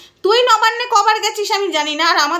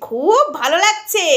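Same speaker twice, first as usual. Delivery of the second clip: slow. Real, not acted.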